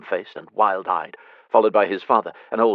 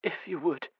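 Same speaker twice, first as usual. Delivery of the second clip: soft amendment; 9 semitones higher, 8 dB quieter than usual. Acted. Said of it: "then amended".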